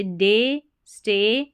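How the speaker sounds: डे and स्टे with a slightly long ay, slow; long ay sound. Shown as a demonstration. Teacher models the ay ending for students, slowly. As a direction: stretch the ay in डे स्टे a little. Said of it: "थोड़ा लंबा pronunciation".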